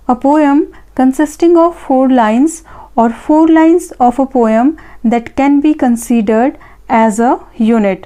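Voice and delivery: each word read out slowly and evenly; slow dictation. Acted. Teacher reading an answer option to students, slow dictation. Reads question stem slowly.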